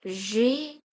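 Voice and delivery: G said as "zhay"; French letter G. Shown as a demonstration. Teacher showing the French alphabet, G said "zhay". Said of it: "G is".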